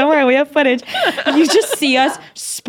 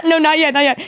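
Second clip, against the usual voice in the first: usual speaking voice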